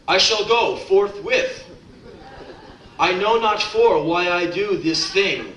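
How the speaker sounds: lightly hammed-up old-fashioned poet voice; mock pompous poet. Student reading his stiff assigned poem, mock lofty recital. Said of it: "You have him write poetry".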